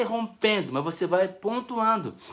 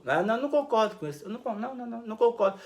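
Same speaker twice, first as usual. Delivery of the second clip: dismissive retort; 3 semitones higher, faster than usual. Shown as a demonstration. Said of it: "Vai falar isso".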